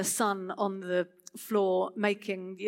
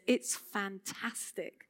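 quiet awe; 6 dB quieter, slower than usual. Pretend. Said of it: "he says".

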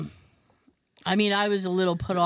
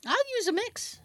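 bold, high excited take; 13 semitones higher than usual. Real, not acted. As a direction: say it high and proud. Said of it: "I'm not afraid".

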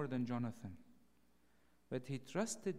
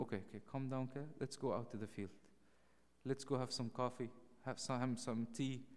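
soothing Jonathan. Retold or imitated. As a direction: settle a panicking friend gently. Jonathan calming David down.

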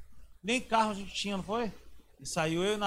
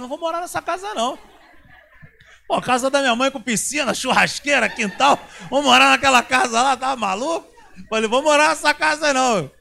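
loud, laughing outraged refusal; indignant shout; 4 semitones higher, 12 dB louder than usual. Retold or imitated. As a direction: yell it like the idea is absurd. Retold heated refusal. (recusa indignada, gritando e rindo)

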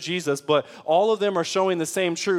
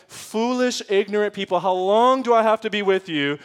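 harsh rebuke; 3 semitones higher, 4 dB louder than usual. Pretend. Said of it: "with a tone of like".

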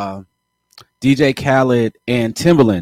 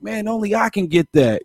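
higher, mildly boastful imitation of a DJ; 5 semitones higher than usual. Retelling a producer's brag to a co-host, mildly hyped. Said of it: "Khaled was hype on that one".

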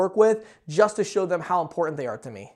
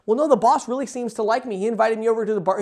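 higher, hurried imitation of an objector; mock insistence, pitched up and rushed; mock protest; 3 semitones higher than usual. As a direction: play a naive employee lightly protesting. Imagined employee protesting about the boss.

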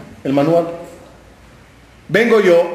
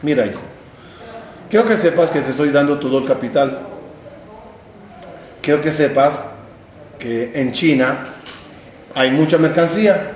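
put-on lower, unhurried old father calling his boy back; a lightly voiced elderly father; 4 semitones lower, 3 dB quieter than usual. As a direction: hold the son back like a patient old dad. Old father advises son.

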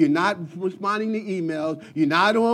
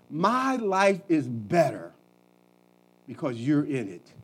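tender compliment; 4 semitones lower, 3 dB quieter than usual. Shown as a demonstration. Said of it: "Have you ever said that to your spouse?".

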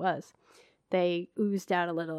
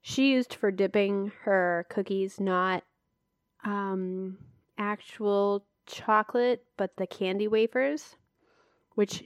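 eating while talking. Real, not acted. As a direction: mouth full of chocolate. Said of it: "I'm eating chocolate now".

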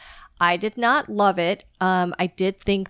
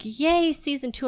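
mock cheer; 7 semitones higher than usual. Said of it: "people were like".

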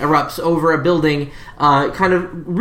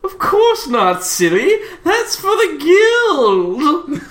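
laughing condescension; 9 semitones higher, much slower than usual. Acted. Hugo laughing at players.

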